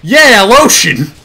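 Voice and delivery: a loud, slow, hammed-up victory scream. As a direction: bellow it in triumph. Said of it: "and scream".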